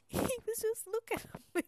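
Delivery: can't stop laughing while telling it; giggling through the fish counter story. Real, not acted. Laughing retelling fish counter bloke.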